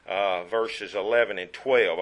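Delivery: ordinary talk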